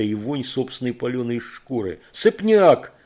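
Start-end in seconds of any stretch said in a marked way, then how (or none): 2.1-2.9 high, loud hoarse call; loud hoarse shout; hoarse yell. A narrator's reading. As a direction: yell the dog's name till it rasps. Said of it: "хрипло завопил он".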